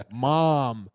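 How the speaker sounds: drawn-out American "mom"; American pronunciation. Shown as a demonstration. Kids quoted as saying it the American way, American accent. American word against British one.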